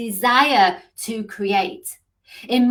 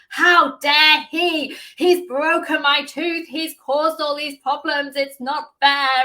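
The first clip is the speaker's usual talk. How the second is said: higher, louder, slow indignant outburst; retold anger; 6 semitones higher, 4 dB louder, slower than usual. Coach retelling her rage at the dentist, mock indignant. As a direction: replay the fury at the dentist, pitched up. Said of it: "I was so angry with the dentist".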